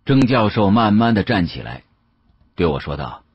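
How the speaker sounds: ordinary delivery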